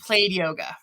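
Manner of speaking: lightly imitated European accent; thick European accent. Doctor dismissing yoga to patient, light European accent. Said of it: "some sort of thick European accent".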